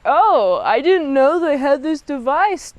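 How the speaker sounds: feigned innocence, swooping OH; Kirk. Retold or imitated. Captain pretending not to know of the device, feigned innocence. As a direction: play mildly fake surprise. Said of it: "he pretends to be like".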